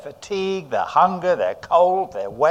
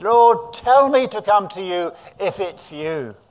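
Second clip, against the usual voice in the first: shouted call; 4 semitones higher, 4 dB louder than usual. Retold or imitated. Peter shouting to Jesus from the boat, a raised call. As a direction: Lord called out loud over the wind. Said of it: "He probably shouted".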